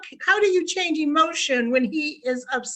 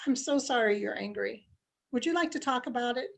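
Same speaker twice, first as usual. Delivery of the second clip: calm, soothing; 3 semitones lower, 7 dB quieter than usual. Shown as a demonstration. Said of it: "instead of yelling and responding back with anger".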